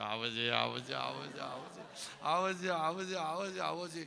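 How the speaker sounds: loud imitation of a wailing call for father; crying out father. Woman at camp crying for her father, loud imitated wail. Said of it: "아버지를 부르면서 울었어요".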